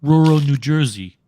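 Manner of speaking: like a Jersey gangster making a threat; New Jersey mobster accent. Retold or imitated. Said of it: "take on that accent".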